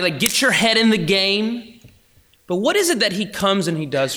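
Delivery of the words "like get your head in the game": high, loud mock pep talk; imagined stern voice. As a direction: push hard like an imagined taskmaster, drawing it out. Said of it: "I hear his voice in those moments".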